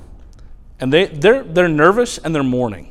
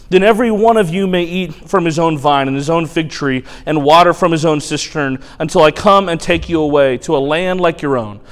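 mocking herald. Spokesman's taunting speech continues.

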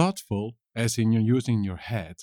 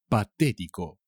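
"Patético" stressed on TÉ; "Patético" with the accent on té; stress on second syllable. Shown as a demonstration. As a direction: lean on the first e in "Patético". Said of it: "con un acento en la E".

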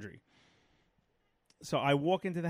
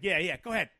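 loud, defiant retort to a bystander; raised voice, daring them on; retold yelling; 2 semitones higher, 5 dB louder than usual. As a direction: reenact yelling out a car window. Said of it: "and I yelled at one point".

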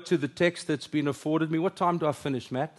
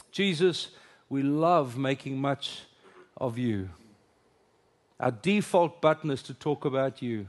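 prayer. Acted. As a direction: pray aloud for the room, unhurried and earnest. Leads congregation in prayer.

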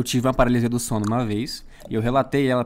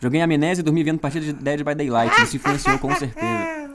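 announcer voice. Acted. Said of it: "Adorei a voz de locutor".

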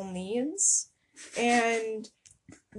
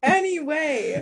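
drawn-out segue; 6 semitones higher, 5 dB louder, slower than usual. Real, not acted. Steering back after being interrupted.

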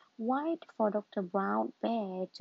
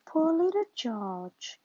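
slow, louder pitying coo; sympathetic; 5 semitones higher, 5 dB louder, slower than usual. Acted. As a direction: feel sorry for the sick little one. Mother pities sick son.

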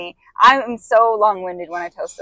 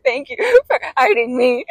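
quoting her tearful thanks with a crying catch; half-laughing, half-crying thank you; retold sobbing gratitude to mom; mock sob; 4 semitones higher than usual. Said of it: "still crying".

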